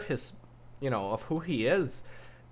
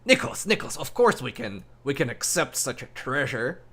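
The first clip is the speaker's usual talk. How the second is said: eager pleading; faster than usual. Acted. Sage urging the archmage to accept the book, eagerly. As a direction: talk him round eagerly.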